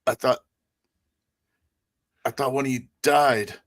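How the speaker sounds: put-on high, halting old man's voice; frightened old man. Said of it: "He's like".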